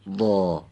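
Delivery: وا long, moved slightly to the back of the mouth; heavy back vowel. Shown as a demonstration. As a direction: pull وا back for a thick sound.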